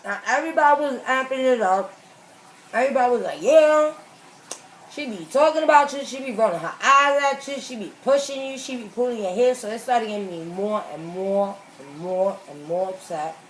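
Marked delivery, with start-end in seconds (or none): 3.4-9.5 egging on. Retold or imitated. Friends egging her on.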